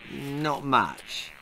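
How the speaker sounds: soft, scared near-whisper. Acted. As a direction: barely dare to answer. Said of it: "whispered Dee".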